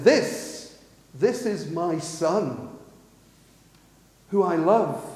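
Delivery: slow, weighty declaration with pauses; solemn pronouncement, lightly acted; God. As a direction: declare it deliberately, drawing out "this is my son". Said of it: "This is what God says".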